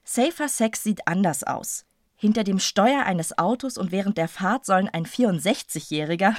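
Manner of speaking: measured reading of a newspaper report; reading aloud. Acted. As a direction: read the article out deliberately.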